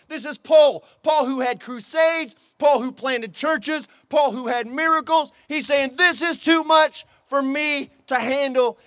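emphatic preacher driving the point home; forceful preaching. Acted. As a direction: pound out each phrase from the pulpit.

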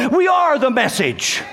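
high, slow declaration to the congregation; emphatic preaching. Real, not acted. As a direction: proclaim it word by word. Preacher's climax, first take.

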